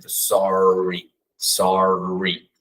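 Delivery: "sorry" com a ponta da língua pra trás; retroflex R. Shown as a demonstration. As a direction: enrole o R em "sorry". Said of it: "A ponta da língua pra trás". (R americano)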